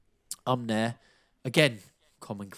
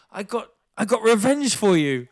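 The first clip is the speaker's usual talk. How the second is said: high, louder put-on Canelo voice; imitating Canelo; 9 semitones higher, 7 dB louder than usual. The speaker quoting Canelo's boast to him, high put-on voice. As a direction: deliver the boast like Canelo would.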